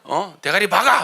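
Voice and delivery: a hint of a fussy mother-in-law scolding; mock nagging, picking at faults; nitpicking mother-in-law. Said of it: "이 시어머니처럼 트집 잡아가지고". (트집 잡는 시어머니 흉내)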